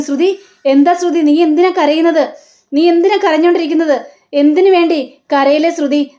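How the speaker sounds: anxious relative. Acted. Family member rushing in, asking Shruthi why she cries, alarmed. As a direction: press her with alarmed concern.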